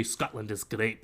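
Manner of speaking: rough Scottish accent with a rolled R; a not-so-great attempt at a Scottish accent. Shown as a demonstration. Game master repeats his key phrase, amateur Scottish accent. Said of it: "it's not a great Scottish accent".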